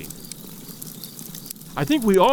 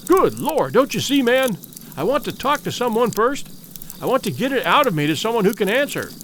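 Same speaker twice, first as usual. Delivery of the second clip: high, rushed, desperate pleading; frantic pleading; 3 semitones higher than usual. Acted. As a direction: blurt it out, desperate to be heard. Frantic survivor pours out his tale.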